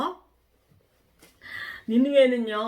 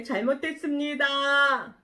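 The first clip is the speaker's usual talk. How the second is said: prayer of repentance; 3 semitones higher, slower than usual. Acted. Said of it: "기도했어요".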